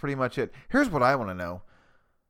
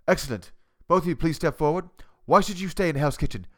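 Gordon Ramsay; 4 semitones higher than usual. Pretend. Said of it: "impersonating Gordon Ramsay".

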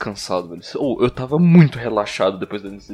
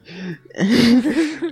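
high burst of laughter; 9 semitones higher, 5 dB louder than usual. Real, not acted. Laughing at his own voice.

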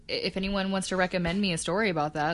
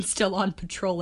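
ominous tones; 4 dB quieter than usual. Retold or imitated. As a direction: murmur it like a ghost story. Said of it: "in ominous tones of voice".

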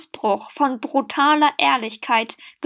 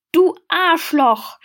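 slow, higher, louder crying yell; bawling yell; 6 semitones higher, 4 dB louder, slower than usual. A narrator's reading. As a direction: howl it out, sobbing and shouting at once. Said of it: "brüllheulte er".

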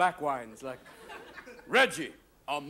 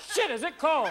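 shivering animal; 8 semitones higher than usual. Retold or imitated. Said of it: "a whole bunch of animals going".

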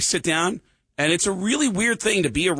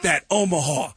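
Rock singer's stage voice; 7 semitones higher than usual. Retold or imitated. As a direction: belt it like a frontman working an arena. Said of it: "on stage he went".

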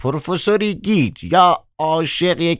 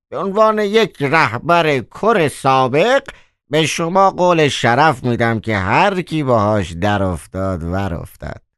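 lower, a mild mock whine; moaning; 3 semitones lower than usual. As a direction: groan it out theatrically. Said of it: "کروویف با ناله گفت".

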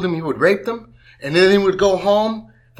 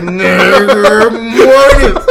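slow deliberate say; 6 semitones higher, 10 dB louder, much slower than usual. Retold or imitated. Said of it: "I was like".

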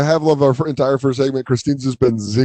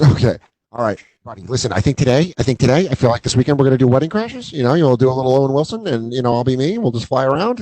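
fast-talking Vince Vaughn; much faster than usual. Retold or imitated. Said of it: "He goes".

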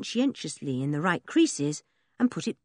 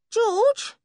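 calling out; 5 dB louder than usual. A narrator's reading. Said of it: "he called".

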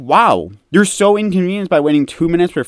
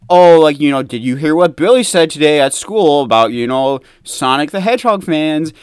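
mock gossip; 4 semitones lower, 4 dB louder than usual. Mocking soap-opera gossip.

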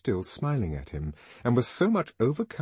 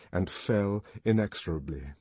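usual speaking voice

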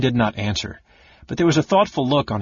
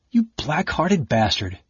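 through clenched teeth; 5 semitones higher, slower than usual. Acted. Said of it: "through clenched teeth".

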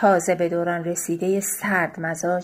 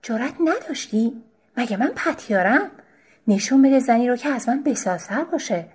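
raised, higher-pitched indignant retort; angry outburst; 5 semitones higher, 4 dB louder than usual. Acted. Wife bursts out at her husband, stung and angry. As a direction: flare up at him, stung. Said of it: "از جا بجهم".

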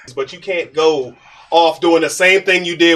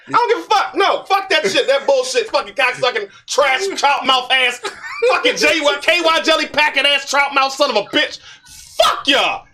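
higher, laughing fake-furious rant; comic rage rant; 7 semitones higher than usual. Real, not acted. Fan ranting about Spider-Man, higher and half-laughing. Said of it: "interrupt your rage".

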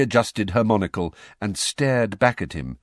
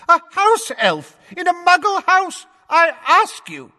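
scornful shout; 9 dB louder than usual. A narrator's reading. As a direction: jeer at the very idea. Fudge mocking loudly.

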